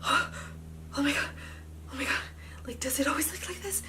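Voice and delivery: high, loud mock panic; freaked-out imitation. Technician seeing the leak on the machine, acted alarm. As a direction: gasp it out as an alarmed onlooker. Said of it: "she's kinda, like, scaring me".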